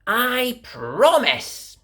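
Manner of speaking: put-on high, childlike promise; little girl voice. A narrator's reading. Girl promising her mummy, high and earnest. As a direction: sound like a small girl promising. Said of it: "said Little Red Riding Hood".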